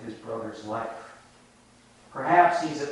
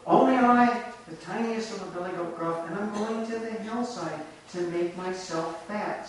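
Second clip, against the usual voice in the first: high, tiny little billy goat voice; small goat voice; 5 semitones higher than usual. Acted. Little goat answering the troll, small high voice. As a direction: shrink your voice to the littlest goat. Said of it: "with such a small voice".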